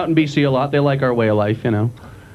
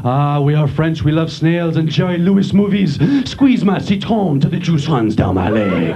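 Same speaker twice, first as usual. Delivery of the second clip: mock French voice; 3 semitones lower than usual. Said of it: "Just listen to them".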